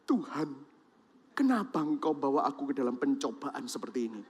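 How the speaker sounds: imitating a debtor's quiet moan; mock complaining. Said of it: "Langsung saudara ngeluh".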